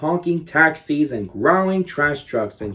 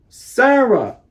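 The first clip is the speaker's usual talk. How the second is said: high, joyful call of her name; light up at the sight of her; a glad, high-pitched Sarah!; excited cry; 8 semitones higher, 4 dB louder than usual. A narrator's reading.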